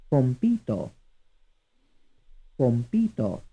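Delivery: "Compito" as com-PI-to; stress on second syllable. Shown as a demonstration. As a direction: lean on the middle PI of "Compito". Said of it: "stressed on the second syllable".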